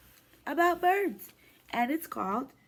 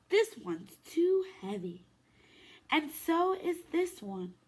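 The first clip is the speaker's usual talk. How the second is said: gentle, lively storybook read-aloud; reading to children. Acted. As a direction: read it to little ones at story time. Reads picture book to kids.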